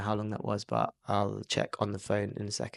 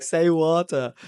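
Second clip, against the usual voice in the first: higher, louder mock fangirl plea; excited demand; 5 semitones higher, 6 dB louder, slower than usual. American girls prompt the Englishman, excited demand. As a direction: imitate an eager girl begging to hear it.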